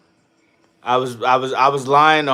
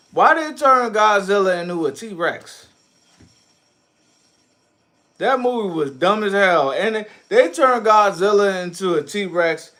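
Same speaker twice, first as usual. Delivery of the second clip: higher, slow, disbelieving; incredulous rant; 8 semitones higher than usual. Real, not acted. Streamer ranting about the Godzilla movie, incredulous. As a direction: drag it out in disbelief.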